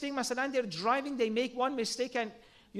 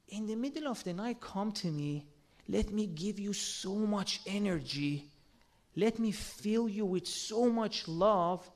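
tender divine call; 3 semitones lower than usual. Retold or imitated. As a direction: coax gently, like a loving host. God's loving call to Prophet.

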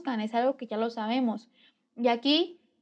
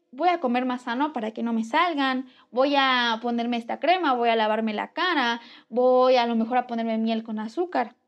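louder, upbeat pep talk to herself; self-motivating; 4 dB louder than usual. Retold or imitated. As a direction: cheer yourself on, a bit louder. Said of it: "Y me estoy motivando".

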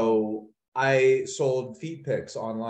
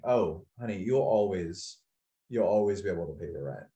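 nonchalant neighbour; 5 semitones lower, 4 dB quieter than usual. Retold or imitated. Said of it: "she was, like, so nonchalantly".

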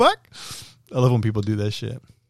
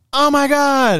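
high mock gasp of surprise, much higher; imitating surprise; 13 semitones higher, slower than usual. The boss realizing it's his birthday, high surprised exclaim. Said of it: "And she's like".

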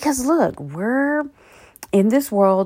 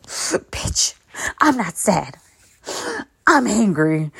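imitating someone crying, gasping between phrases; mock crying; slower than usual. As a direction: play tearful denial with sobbing breaths. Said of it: "people would cry in my presence. They'd be like".

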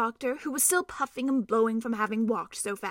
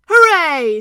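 higher, loud squeaky cheer; shrill small voice; 6 semitones higher, 15 dB louder than usual. Acted. Mouse cheering at the doctor's feet, shrill tiny hooray. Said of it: "said a very shrill and small voice".

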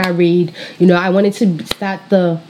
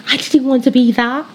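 British accent slip; 5 semitones higher than usual. Real, not acted. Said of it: "my British accent".

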